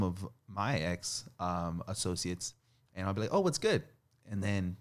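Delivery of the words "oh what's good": mock cheery greeting. Greeting an ex-associate, retold.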